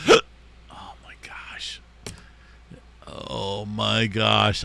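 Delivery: with hiccups. Real, not acted. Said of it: "I apologize for the hiccups".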